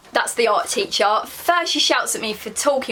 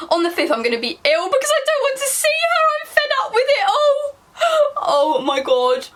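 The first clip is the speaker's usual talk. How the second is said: high, loud, laughing through the words; can barely read for laughing; laughing while reading; 3 dB louder than usual. Real, not acted. Cracks up reading the entry.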